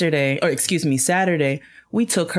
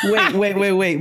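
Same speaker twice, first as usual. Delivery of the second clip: laughing wait; 3 semitones higher than usual. Real, not acted. Cohost laughing as she cuts in to tell her story. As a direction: cut in while laughing.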